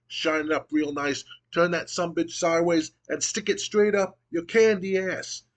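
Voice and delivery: hammed-up trash talk swelling to the final insult; a hint of a cocky champion taunting; The Rock promo. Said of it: "And The Rock goes".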